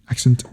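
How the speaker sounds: "Accent" said as a mock British demo; British pronunciation. Shown as a demonstration. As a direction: show how Brits say "Accent". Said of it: "that's how we Brits pronounce it".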